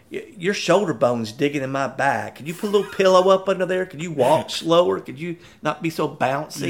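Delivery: whiny mock complaint from a passenger being carried; complaining employee. Manager imitating the employee's whiny complaints. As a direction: nag like a fussy rider on someone's back. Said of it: "she's complaining about".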